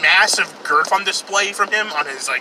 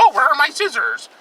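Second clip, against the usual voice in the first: mock woman's voice; 10 semitones higher than usual. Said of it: "It's like".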